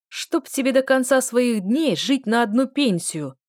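loud, slow coarse bellow; rough male bellow. A narrator's reading. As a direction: trumpet the curse at the queue. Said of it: "трубил грубый мужской голос". (грубый мужской рёв)

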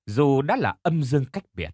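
ordinary delivery

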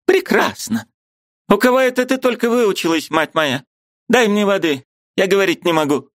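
put-on high, breathless outraged old woman; agitated old aunt. Aunt too upset to speak, high and breathless. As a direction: sputter in indignation, voiced high. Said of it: "трепетным и прерывистым шёпотом".

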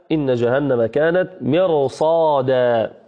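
measured, drawn-out recitation of مرصادا with a heavy ra; slow Quran recitation. Shown as a demonstration. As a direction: recite the verse slowly, tajweed style. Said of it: "كقول الله سبحانه وتعالى".

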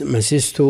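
first seen of مسست takes an i vowel; kasra on the seen. Shown as a demonstration. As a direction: say مسست as "masistu", short i after the first seen. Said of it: "بكسر السين".

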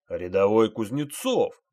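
stern, threatening call of the name; menacing repeat. A narrator's reading. Sergeant repeats the name to the silent private, menacing. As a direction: lean on it like a threat. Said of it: "грозно повторил старшина".

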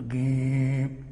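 جيم said as a long, loud "geem"; hard Egyptian G. Shown as a demonstration. Teacher showing the fault of over-stopped jīm, "geem" with hard g. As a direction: turn the ج into a hard g, vowel held. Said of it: "الكاف المصرية التي تبدو مفخمة".

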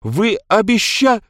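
high, loud, outraged, breaking off; cut-off cry. A narrator's reading. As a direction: shout it and get cut off. Мэдж кричит, её обрывают. (возмущённый крик обрывается)

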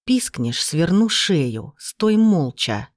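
a thug threatens the captive, slow and menacing; menacing growl. Acted. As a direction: growl the threat right in her face. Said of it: "прорычал прямо в лицо".

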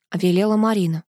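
plain reading voice

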